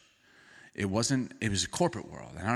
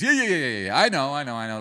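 dismissive I know; 4 dB louder, faster than usual. Retold or imitated. Pastor mimicking Martha cutting Jesus off, impatient. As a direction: brush it off, you already know. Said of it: "That's what she's doing to Jesus".

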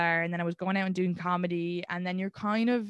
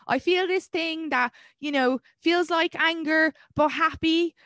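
searching for words; 9 semitones higher, 4 dB louder, slower than usual. Retold or imitated. Quoting herself to therapist.

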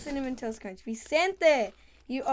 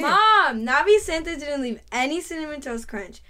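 loud whiny complaint; 7 dB louder than usual. Acted. Kid tattles on brother to mom, loud and whiny. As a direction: yell the complaint across the kitchen.

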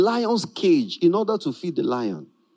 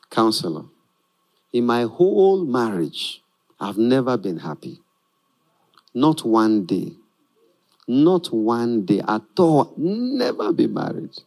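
complaining wife; 9 semitones lower than usual. Acted. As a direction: drag out the misery of every day. Wife complains to marriage counselor.

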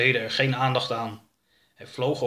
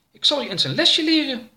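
very high, louder, mock-threatening alien voice; dripping Oroka swears to teach his ship a lesson; soaked alien threatening; 13 semitones higher, 4 dB louder than usual. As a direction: vow revenge on the ship. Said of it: "zei hij".

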